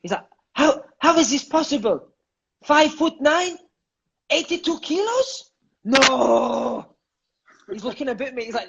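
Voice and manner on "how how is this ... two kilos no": high, disbelieving coach voice; incredulous coach. Retold or imitated. Coach shocked by the player's weight, high and incredulous.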